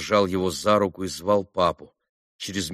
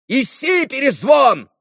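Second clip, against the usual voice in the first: defiant shout; 7 dB louder, slower than usual. A narrator's reading. Boy defiantly shouts at doctor.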